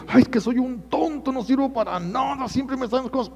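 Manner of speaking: high, whiny self-reproach; self-pitying lament. Retold or imitated. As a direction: moan like someone beating themselves up. (lamento agudo y quejumbroso)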